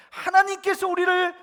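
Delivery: high, loud acted proclamation; 담대한 고백. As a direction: declare it boldly as a confession of faith. Quotes three friends' bold confession. (높고 크게 외치는 담대한 고백)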